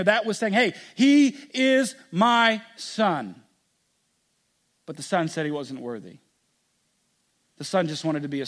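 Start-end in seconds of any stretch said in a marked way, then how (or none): 0.5-3.4 slow, louder proud claim; father declaring his son, proud and slow; proud declaration. Acted. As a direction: announce him as your own, slowly.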